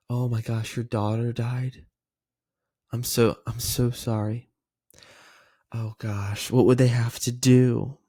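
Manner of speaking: slow, subdued sympathy; demonstrated heartfelt condolence; concerned. Shown as a demonstration. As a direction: take in bad news with gentle dismay. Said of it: "when it comes to concern".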